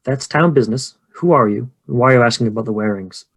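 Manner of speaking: mildly haughty, guarded innkeeper; understated suspicion of an outsider; looking down her nose. Acted. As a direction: challenge the stranger, a touch disdainful. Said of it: "looks down her significant nose at you".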